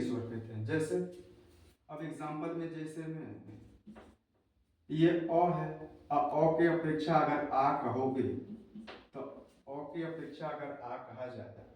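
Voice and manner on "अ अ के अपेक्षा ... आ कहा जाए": drawn-out vowels, अ kept short and आ stretched long, spoken slowly; slow vowel-length demo. Shown as a demonstration. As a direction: slowly show how long आ is held next to a short अ. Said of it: "तो अ कहने में कम समय लग रहा है".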